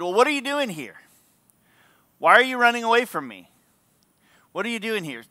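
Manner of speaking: a touch of parental challenge; confronting God. Acted. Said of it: "God talks to you that way".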